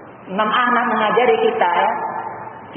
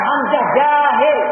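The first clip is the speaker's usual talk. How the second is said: slow demo; 3 semitones higher, much slower than usual. Shown as a demonstration.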